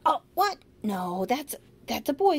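mock surprise. Shown as a demonstration. Teacher pretending shock at a child's mistake, mock surprise. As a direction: fake astonishment to correct gently. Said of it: "we'd say".

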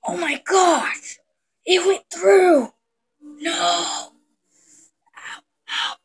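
high, slow panicked wail; panicked crying. Acted. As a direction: cry out in pain and panic. Straw went through hand.

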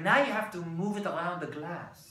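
imitated Israeli guide explaining; Israeli-accented wine lesson. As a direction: instruct in a light put-on Israeli accent. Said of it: "Here's my Israeli accent".

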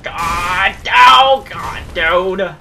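high, loud panicked cries. Real, not acted. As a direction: panic as the boss hits. Panicked during a boss fight.

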